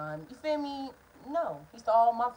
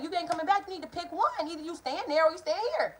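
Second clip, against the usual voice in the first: retold demand; 8 semitones higher than usual. Quarrel, voicing herself.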